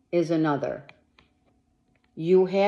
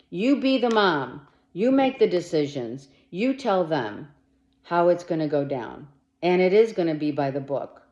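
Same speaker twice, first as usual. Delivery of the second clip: voice going up. Real, not acted. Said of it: "My voice went up".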